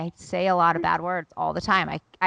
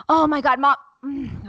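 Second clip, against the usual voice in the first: imitated exasperated child; 7 semitones higher, 6 dB louder than usual. Imitates exasperated son stopping himself.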